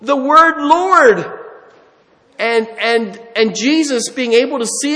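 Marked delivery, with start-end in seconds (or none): 0.0-1.4 The word Lord drawn out slowly and higher; slow emphasis. Shown as a demonstration. Preacher marveling at the thief's word, slow and emphatic. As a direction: savor each word of The word Lord. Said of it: "Isn't that beautiful?".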